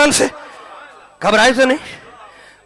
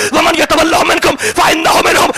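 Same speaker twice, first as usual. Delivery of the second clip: Quranic recitation; 3 semitones higher than usual. Shown as a demonstration. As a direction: recite the verse aloud, flowing. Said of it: "repeats the verse".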